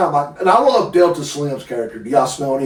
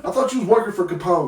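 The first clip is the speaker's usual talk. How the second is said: laughing mock quote; 5 semitones higher, 3 dB quieter, faster than usual. Acting a film character's line.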